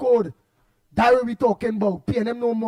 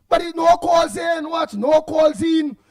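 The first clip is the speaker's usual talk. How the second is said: emphatic slow shout; 5 semitones higher, slower than usual. Real, not acted. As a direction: raise the voice and drag each word out, annoyed. Host riled by caller's jab.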